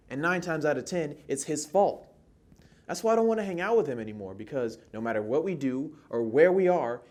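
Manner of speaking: jittery, fed-up monologue performance, rising in pitch and volume; a little jittery. Acted. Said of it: "it was a little jittery".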